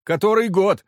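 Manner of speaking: high, loud begging whine; insistent whine. Acted. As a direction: keep whining for mercy. Petitioner eagerly confirms.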